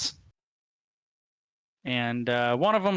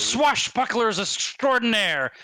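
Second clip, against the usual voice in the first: boastful goblin; 5 semitones higher, slower than usual. Acted.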